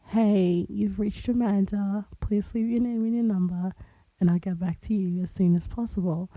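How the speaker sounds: understated, over-it phone greeting; a touch of weary indifference in a routine greeting; bored voicemail greeting. Shown as a demonstration. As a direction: recite your voicemail as if mildly bored. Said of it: "they say that I sound so bored".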